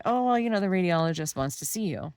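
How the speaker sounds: a light mock of a bright casual nurse; nurse's breezy voice. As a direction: play the falsely cheerful technician.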